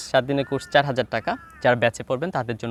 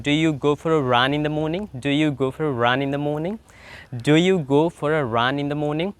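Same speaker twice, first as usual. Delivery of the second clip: slow repeated drill; slower than usual. Shown as a demonstration. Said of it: "আপনি একা একা প্রশ্ন করতে হবে".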